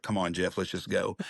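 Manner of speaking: a hushed nudge from the wife; quiet urging. Retold or imitated. Wife urging him to leave.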